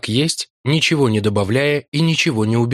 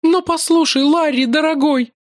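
much higher, pleading; genuine distress; 3 dB louder than usual. A narrator's reading. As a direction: beg him with real pain. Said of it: "неподдельное страдание".

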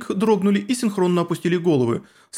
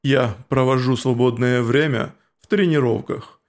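stern insect warrior; 2 semitones lower than usual. Acted. Cocytus explains, low slow.

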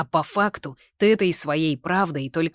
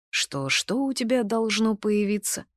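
horrified; 7 semitones higher, 3 dB louder than usual. A narrator's reading. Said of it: "с ужасом перебил меня Артур".

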